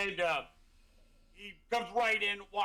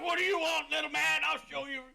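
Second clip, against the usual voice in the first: high-pitched, puffed-up eager voice; excited high character voice; thrilled halfling; 8 semitones higher than usual. Acted. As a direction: show off to the little man. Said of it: "he's, like, thrilled".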